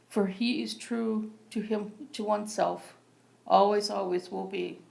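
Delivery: measured poetry recital with pauses between lines; open-mic poem read plainly and deliberately. Acted. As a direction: read your poem out phrase by phrase, evenly. Reads own poem aloud.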